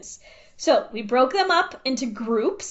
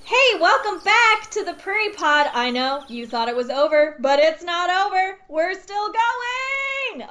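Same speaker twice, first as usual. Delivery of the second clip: much higher and louder, stretching the last words out; yelling into the mic; 7 semitones higher, 3 dB louder than usual. Real, not acted. Host welcoming listeners back, yelling excitedly into the microphone. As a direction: burst in way too loud with excitement. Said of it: "Sorry for yelling in my microphone".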